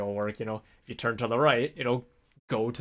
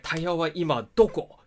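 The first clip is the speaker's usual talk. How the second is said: imitating a pointed question, higher and louder; instructor asking; 6 semitones higher, 5 dB louder than usual. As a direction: quiz the student sharply. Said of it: "So he was like".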